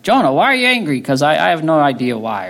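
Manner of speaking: high, mock-puzzled questioning voice; mock clueless God. Pastor voices God pretending not to know, high and mock-puzzled. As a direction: play dumb, as if truly baffled. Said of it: "he's like".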